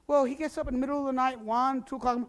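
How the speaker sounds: high, fast whiny complaint; mock-annoyed neighbor, rising to a shout; complaining neighbor. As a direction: tattle on Gilbert like a tired neighbor. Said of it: "the Christian party".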